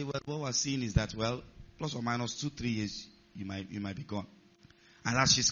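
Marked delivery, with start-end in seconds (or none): 0.0-4.3 low, softening voice; quiet grim prognosis. Acted. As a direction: break it gently, sinking lower and softer. Acted grim prognosis to crying patient.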